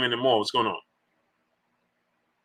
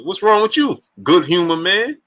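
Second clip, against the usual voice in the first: lightly acted, higher voice, rising end; imitated sitcom character; 4 semitones higher than usual. Streamer acting out the Martin scene, lightly higher voice. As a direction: put on a higher questioning voice. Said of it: "He was like".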